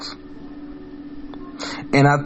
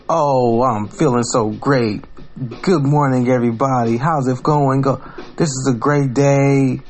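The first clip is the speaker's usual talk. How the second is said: mock happy vlogger. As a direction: parody a fake-happy morning influencer. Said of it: "super fucking happy and I got this big ass Chuck E. Cheese smile".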